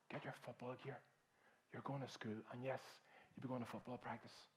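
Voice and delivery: mother calmly reassuring her son; calm firm mother. Retold or imitated. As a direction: settle him down calmly.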